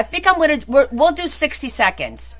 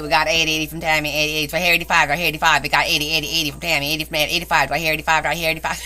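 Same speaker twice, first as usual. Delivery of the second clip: lower-pitched, hammed-up auctioneer bid calling; auctioneer impression; 6 semitones lower, much faster than usual. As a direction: rattle off repeated bids like an amateur auctioneer. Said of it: "Do I sound like one of them".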